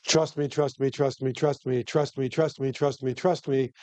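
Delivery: smooth, ingratiating sweet-talk; oily voice. Retold or imitated. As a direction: coax the jury like a slick salesman. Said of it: "in your best oily voice".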